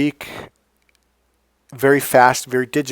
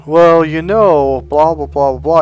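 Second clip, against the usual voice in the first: speaking on the breath; 3 semitones higher, 8 dB louder than usual. Shown as a demonstration. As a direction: let the words ride out on one long breath. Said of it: "they literally speak on the breath as I'm doing right now".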